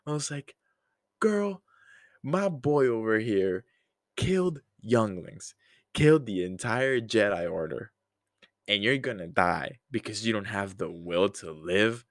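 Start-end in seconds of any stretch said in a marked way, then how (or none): 1.2-12.0 mock scolding. Acted scolding reply to Padme.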